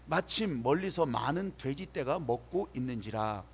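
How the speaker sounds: slow, measured verse reading; scripture reading. Acted. Pastor reading his verse to the congregation, measured scripture reading. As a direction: read the verse out formally.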